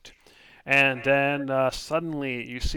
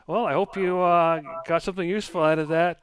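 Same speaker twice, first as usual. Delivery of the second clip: cheery fortune teller; 4 semitones higher, 6 dB louder, faster than usual. Acted. Fortune teller turns cheerful shopkeeper.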